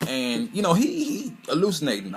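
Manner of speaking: high, loud, fired-up telling; can't contain how wild it got; excited. Real, not acted. Fan telling viewers about the twist, high and worked up.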